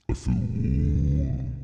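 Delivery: a slow low "I feel warm"; low, slow drawl. Shown as a demonstration. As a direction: sink the voice down and stretch it. Repeats the line in different ways.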